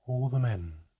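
a touch of command; authoritative call. Acted. Manca calling the crew to the ropes, mildly commanding. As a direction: call it out like a captain, lightly. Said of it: "Manca's voice floated authoritatively".

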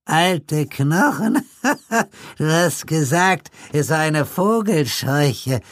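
put-on very high, slow giggling old man; high reedy old man with a giggle; old man chuckling. A narrator's reading. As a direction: cackle it knowingly. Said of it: "erwiderte der Alte kichernd".

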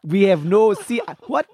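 lightly put-on Nigerian accent, playing the nervous prince; a nervous prince who cannot swim, in a light Nigerian accent; mock Nigerian accent. Friends egging him on to play the prince, light Nigerian accent. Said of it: "Do the Nigerian prince".

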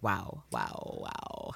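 低声惊叹的耳语; breathless whispered awe; whispered wow. Retold or imitated. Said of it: "And Mariana's just like".

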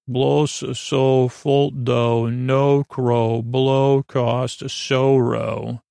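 slow, measured alien syllables; lightly voiced alien speech. First Judoon speaking before the translator, lightly imitated alien speech. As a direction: recite the alien rhyme, lightly in character. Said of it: "what the first Judoon says".

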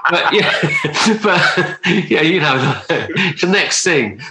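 giggling, voice lifted high; laughing. Real, not acted. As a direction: laugh through the joke. Joking about filling in MBE form.

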